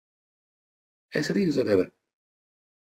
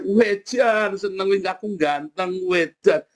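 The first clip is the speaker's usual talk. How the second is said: higher, slow, self-satisfied crow; pleased boasting; 5 semitones higher, slower than usual. Pretend. Rich man delighting in himself, slow and pleased. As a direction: play the smug happy rich man.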